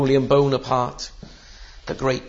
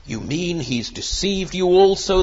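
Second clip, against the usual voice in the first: mildly indignant, higher-pitched challenge; a touch of indignation, pitched up; indignant retort; 4 semitones higher than usual. Acted. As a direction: throw it back as a scornful retort. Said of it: "the Pharisees retorted".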